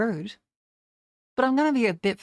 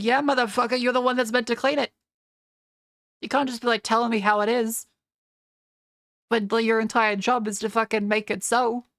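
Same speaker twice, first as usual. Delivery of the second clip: heated retort; 3 semitones higher than usual. Acted. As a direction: snap back like you're arguing with him. Mock argument with the janitor.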